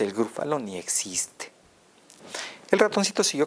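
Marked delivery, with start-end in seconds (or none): 0.0-1.5 whispered aside, voiceless; secret whisper. Acted. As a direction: let the secret slip in a whisper. Mouse secretly admits Gruffalo fake.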